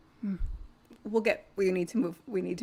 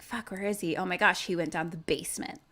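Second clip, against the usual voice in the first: much softer, anxious; hushed panic; 3 semitones lower, 7 dB quieter, faster than usual. Acted. Group whispering about the leprechaun below. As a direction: keep it down so he won't hear. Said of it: "they're like".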